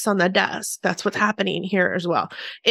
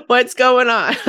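louder insistent question; 4 dB louder, slower than usual. Retold or imitated. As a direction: ask it again, louder and firmer. Repeat of the imagined question.

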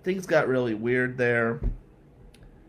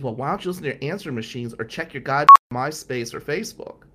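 angry retort; 7 dB louder, faster than usual. Retold or imitated. Girlfriend snapping back, angry.

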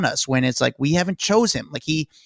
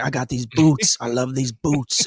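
slow mock voice of a famous singer about boots; lightly voiced a famous singer, lingering; mild impression of a singer; imitating a famous singer; slower than usual. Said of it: "And then he's like".

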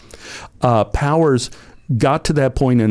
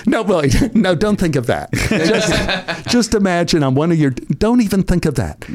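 higher-pitched, laughing retraction; flustered backtracking; 5 semitones higher than usual. Retold or imitated. Actor reassuring nervous co-star, flustered and laughing. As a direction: laugh while hastily taking it back.

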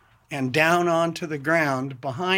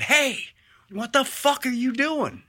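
much higher sharp yell; retold shout; 11 semitones higher than usual. Homeowner shouting at his attacker, high retold yell. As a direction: yell it up high to stop him. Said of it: "I raised it and said".

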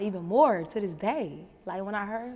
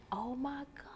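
whispered oh my god; 5 semitones higher, 8 dB quieter than usual. Retold or imitated. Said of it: "I'm like".

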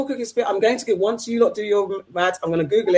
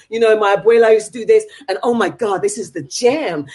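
mock hype instructor; 2 semitones higher, 4 dB louder than usual. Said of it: "till she said".

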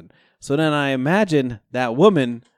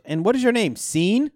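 imitating teller; 8 semitones higher than usual. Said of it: "She goes".

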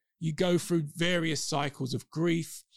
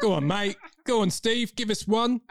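raised, wheedling Cockney; Cockney accent; 5 semitones higher than usual. Acted. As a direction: cajole a mate in Cockney. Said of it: "we might go into Cockney".

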